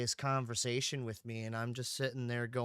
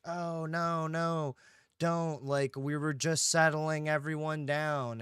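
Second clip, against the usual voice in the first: mock pleading; 4 semitones higher, 5 dB louder, slower than usual. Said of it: "it usually turns into".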